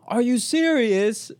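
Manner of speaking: high, drawn-out bad British accent; incredulous question in a badly faked British accent; horrible British accent. British exchange student reacts to the prank, horrible British accent. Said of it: "I have a horrible British accent".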